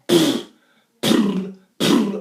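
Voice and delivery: breathy, airy lip trill leaking air; leaky brr. Shown as a demonstration. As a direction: let air leak through the brr. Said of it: "I'm leaking air like crap".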